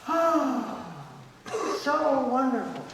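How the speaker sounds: a lightly hammed-up swoon of delight; gushing delight. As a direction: play someone thrilled, half-mocking. Voicing a delighted person.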